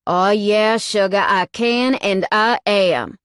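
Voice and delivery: loud, slow, self-assured; smug defiance. A narrator's reading. Cade answering her protest, loud and smug. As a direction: tell her plainly you will.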